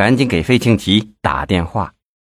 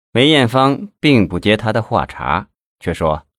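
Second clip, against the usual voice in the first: ordinary delivery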